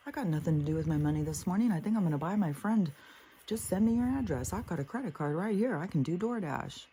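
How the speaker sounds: mock twelve-year-old. Mocking a twelve-year-old boy, fast and chirpy. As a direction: play a careless boy spending his money. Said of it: "Just a typical twelve-year-old".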